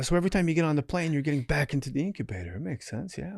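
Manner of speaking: fast, soft Australian explaining; Australian healer, gentle and quick; Australian accent. Retold or imitated. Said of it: "he's Australian".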